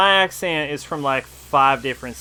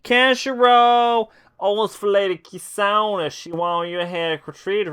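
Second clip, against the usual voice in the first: character voice; 5 semitones higher than usual. Acted. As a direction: read the game line as the character. Reads game dialogue aloud.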